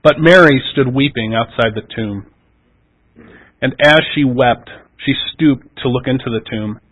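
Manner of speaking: measured, even Bible reading; formal Gospel reading voice; scripture reading. Acted. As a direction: read the passage steadily to the congregation. Reads the Gospel passage aloud.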